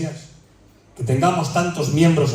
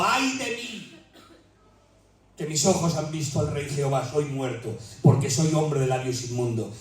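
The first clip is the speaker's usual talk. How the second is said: low, soft broken confession; soft, low, contrite lament; hushed lament; 3 semitones lower, 5 dB quieter than usual. Acted. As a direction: confess it quietly, crushed. Preacher voicing Isaiah, broken.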